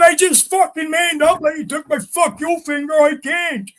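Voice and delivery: high-pitched pleading; retold desperate protest. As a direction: plead that you can't do it. Quoted pleading he can't.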